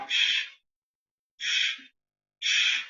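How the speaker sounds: soft shushing to calm dogs; hushing. Real, not acted. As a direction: hush them gently.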